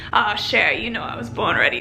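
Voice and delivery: put-on half-hearted New Orleans accent, dropping low; bad New Orleans accent. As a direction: attempt a Cajun-flavored New Orleans accent, badly. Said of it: "like, in his accent".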